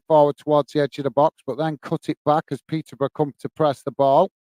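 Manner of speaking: steady running commentary on the build-up; live play-by-play. Acted. Streamer calling the match for his live chat, easy play-by-play. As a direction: call each pass as it happens, evenly.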